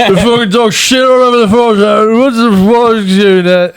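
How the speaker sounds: hammed-up mumbly yelling, words running together; a singer. Singer ranting at his wife about the phone, mock mumbly yell. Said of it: "I can't do his voice".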